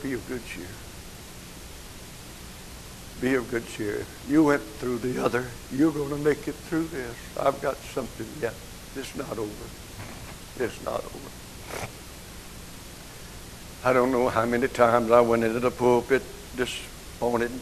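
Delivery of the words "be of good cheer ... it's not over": quiet reassurance. Retold or imitated. God standing by the grieving preacher, quietly reassuring. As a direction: reassure softly, letting the last words drop away.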